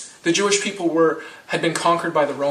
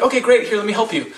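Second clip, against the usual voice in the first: higher and louder, brightly offering help; eager parent; 4 semitones higher, 3 dB louder, faster than usual. Retold or imitated. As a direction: jump in keen to fix it for the kid.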